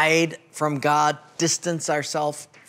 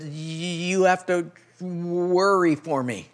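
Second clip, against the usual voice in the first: put-on slow old man; slower than usual. Old owner voiced in joke.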